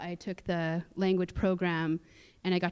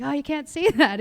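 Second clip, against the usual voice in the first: laughing mock refusal; 9 semitones higher, 8 dB louder than usual. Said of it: "the language department's like".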